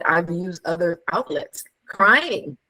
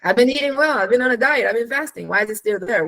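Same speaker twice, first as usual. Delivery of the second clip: high, pitched-up frustrated whine; exasperated whining; 6 semitones higher, faster than usual. Retold or imitated. Woman who diets and exercises, exasperated, high-pitched. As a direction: complain in a shrill, baffled voice of effort. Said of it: "you're wondering".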